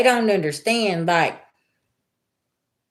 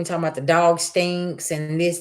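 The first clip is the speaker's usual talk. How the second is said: ordinary talk, nothing marked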